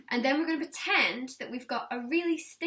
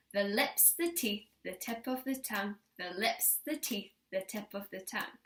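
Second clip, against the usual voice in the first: tongue twister recital; 3 semitones lower, 4 dB quieter than usual. Shown as a demonstration. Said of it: "now your turn".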